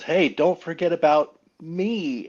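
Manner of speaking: lightly voiced young Charlie Brown, slow; a hint of Charlie Brown, slow and plaintive. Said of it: "he says".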